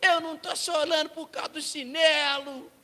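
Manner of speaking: loud, high mock crying protest; hammed-up tearful yelling; wailing child. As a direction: bawl it out like a hurt little boy. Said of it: "E ele gritando".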